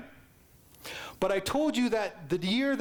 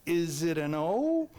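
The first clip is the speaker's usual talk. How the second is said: put-on timid child guess; 3 semitones lower, slower than usual. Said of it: "And I went".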